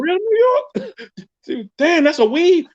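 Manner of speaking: mock caller voice. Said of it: "So I got somebody hit me up".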